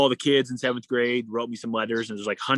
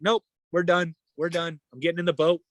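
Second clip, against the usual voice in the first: higher-pitched retold quitting; instant refusal; 5 semitones higher than usual. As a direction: call it off on the spot, no discussion. Acts out his instant refusal.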